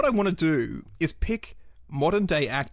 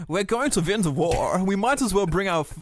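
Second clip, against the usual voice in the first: put-on higher-pitched hammy German accent; 4 semitones higher than usual. Podcaster voicing scheming Nazis in a movie pitch, mock German accent. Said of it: "That was my fantastic German accent".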